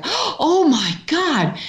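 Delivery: gasp, then a high, drawn-out exclamation; shocked gasp. Retold or imitated. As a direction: imitate his startled horror, high and slow. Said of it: "he was like".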